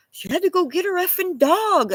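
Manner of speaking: little nephew voice. Retold or imitated. Aunt imitating her toddler nephew repeating her curse, lightly voiced. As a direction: lightly play the kid parroting grown-ups.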